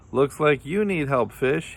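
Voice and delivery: high, mildly amused tease; laughed. A narrator's reading. Kangaroo teases Fish in the pond, high laughing taunt. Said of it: "he laughed".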